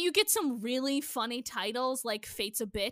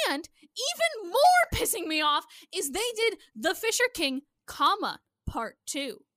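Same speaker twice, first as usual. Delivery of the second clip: rising anger; 3 semitones higher, 4 dB louder than usual. Real, not acted. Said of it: "You got so mad".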